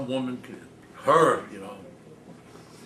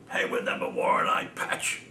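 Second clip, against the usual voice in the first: whispered, unvoiced grumble; a whispered complaint from an old man in a cinema. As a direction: hiss it under your breath like a fussy old man. Father grumbling about film details.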